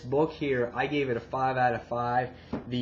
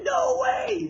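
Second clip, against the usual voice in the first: shocked shout. Retold or imitated. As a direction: yell it like you can't believe your eyes. Governor shot in the face.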